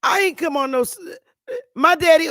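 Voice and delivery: put-on high, loud old southern voice; mock elder protesting loudly; elderly southerner. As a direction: imitate an indignant elder. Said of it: "They be like".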